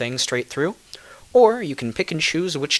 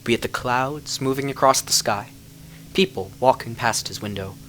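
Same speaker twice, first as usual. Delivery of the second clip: measured storyteller telling a dark fairy tale; story narration; 3 dB louder than usual. A narrator's reading. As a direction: draw listeners into a legend. Reads a fairy-tale style tale.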